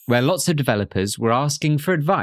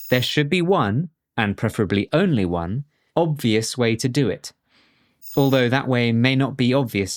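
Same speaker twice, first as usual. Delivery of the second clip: measured poem recital, pausing after each line; deliberate, lilting poetry reading. Shown as a demonstration. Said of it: "in my best poetry reading voice".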